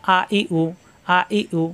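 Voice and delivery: আ, ই, উ kept short; short vowels. Shown as a demonstration. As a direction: say আ, ই, উ from the open mouth without dragging. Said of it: "তাড়াতাড়ি পড়তে হবে". (তাড়াতাড়ি, না টেনে)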